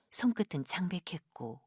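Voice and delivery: ordinary delivery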